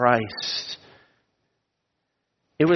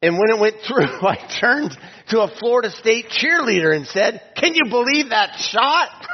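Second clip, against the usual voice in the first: high, quick, delighted player's voice; excited retelling; 7 semitones higher than usual. Retold or imitated. Player to cheerleader, high and thrilled. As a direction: tell it like the thrilled shooter. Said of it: "He said".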